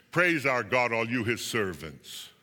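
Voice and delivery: slow, measured command to worship; grave, deliberate call to praise; solemn throne voice. A narrator's reading.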